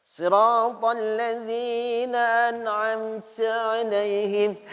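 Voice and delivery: "an'amta" chanted with too much breathy hiss; overdone hiss. Shown as a demonstration. Teacher mocks the student's over-hissed recitation. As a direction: exaggerate the air on the letters. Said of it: "ada yang berlebihan juga".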